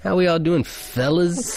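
high mock advert voice. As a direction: sing it out like a cheesy ad host. Imitating the greeting.

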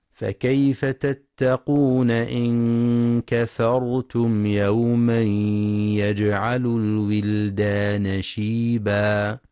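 slow, drawn-out tajweed chanting; تلاوة مجودة بطيئة; Quran recitation. Acted. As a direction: chant the verse slowly with long vowels.

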